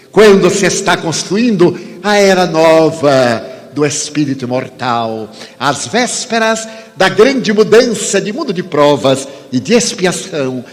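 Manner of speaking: measured, fervent preaching with long pauses; sermon delivery. Acted. Preacher exhorting the audience to faith, fervent.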